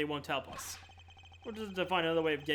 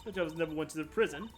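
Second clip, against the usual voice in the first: haughty lady voice. Acted. Warden character defends herself.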